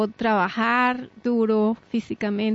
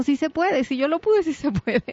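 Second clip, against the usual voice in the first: upbeat chant, a bit higher; cheerful motto; 5 semitones higher than usual. Retold or imitated. Encouraging radio listeners with her motto, upbeat and bright. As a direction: proclaim it like a rallying cry. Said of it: "Y yo digo".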